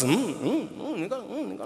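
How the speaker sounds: muttered, swallowed fury under the breath; stifled anger. Retold or imitated. Suppressed anger at elder.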